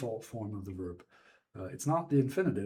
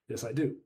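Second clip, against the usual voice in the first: firm emphasis on the final "do"; stress on DO. Shown as a demonstration. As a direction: contradict briefly, leaning on "do". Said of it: "So there I'm emphasizing".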